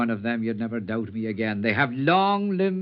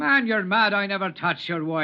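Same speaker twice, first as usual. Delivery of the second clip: higher and louder outcry; alarmed protest; 8 semitones higher, 4 dB louder than usual. Acted. Stranger crying out at the armed husband. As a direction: push back in shock.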